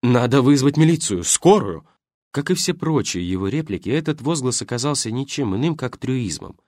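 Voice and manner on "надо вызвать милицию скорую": louder urgent exclamation; exclaiming. Acted. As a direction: blurt it out urgently. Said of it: "Карпытин воскликнул".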